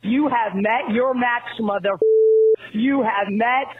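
ranting furious phone message; angry voicemail. Real, not acted. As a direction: spit out a raging voicemail. Great moments in angry voicemail history.

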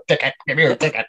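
tickets guy impression. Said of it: "the funny thing is you doing it".

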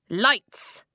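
loud sharp order; loud command. A narrator's reading. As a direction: bark the order. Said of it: "the boy in the darkness commanded".

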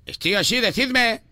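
put-on Castilian Spanish accent; Spain accent. Prankster answering the bank caller, put-on Spain accent. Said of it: "¿Por qué habla así?".

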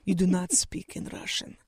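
low, soft, firm voice; dad's hushed warning. Retold or imitated. Dad warns his child in a Moscow taxi, hushed. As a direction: keep it down, imitating a stern order.

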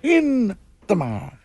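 slow, drawn-out Boston "In the marsh."; Boston accent. Retold or imitated. Host echoing a caller's Boston accent on air. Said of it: "speaking of accents".

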